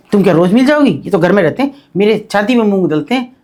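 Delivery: retold teen complaining in rustic Haryanvi; a hint of a Haryanvi teenager's grumble; mild Haryanvi. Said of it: "ऐसी बिल्कुल हरियाणवी में बोल रही वो".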